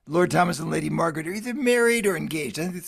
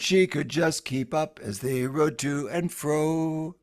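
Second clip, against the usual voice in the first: ballad recitation. Acted. Retelling the Lord Thomas ballad to listeners, an unhurried recitation.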